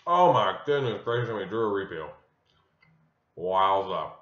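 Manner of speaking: talking with a mouth full; words around a bite of chocolate. Real, not acted. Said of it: "Sorry for talking my mouth full".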